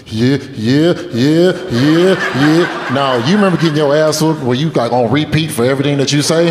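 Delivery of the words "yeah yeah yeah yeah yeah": imitated tearful, hiccuping yeahs; mock sobbing, in short repeated bursts; mock crying. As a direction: answer as if badly choked up. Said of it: "really crying right now?".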